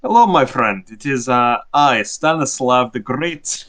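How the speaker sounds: grand self-introduction in lightly faked Russian accent; a hammy attempt at a Russian accent; bad Russian accent. Stanislav introduces himself to the bartender, very bad Russian accent. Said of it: "He's doing a very bad Russian accent".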